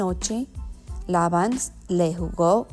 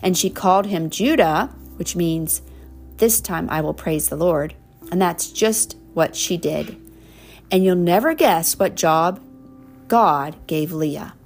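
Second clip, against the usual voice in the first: warm storybook reading; reading to children; slower than usual. Acted. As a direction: read it like a bedtime story. Reading picture book to child.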